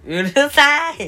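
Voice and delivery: petulant yell. Acted. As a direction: snap at them, high-pitched. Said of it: "弱い方向".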